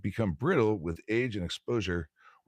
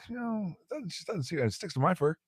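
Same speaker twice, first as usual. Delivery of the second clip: much higher, doubting bear voice; incredulous bear; 11 semitones higher than usual. Acted. Bear doubting the rabbit's claim in a much higher voice. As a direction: squeak out the bear's disbelief.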